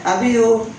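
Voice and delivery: imitating a child's garbled "Love you"; bata nga dili maka-pronounce. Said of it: "Di niya ma-pronounce". (sundoga ang bata nga bulol mosulti og "Love you")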